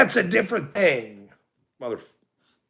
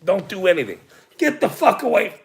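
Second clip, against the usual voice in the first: angry rant; 6 semitones higher than usual. Real, not acted. Re-ranting at the cops.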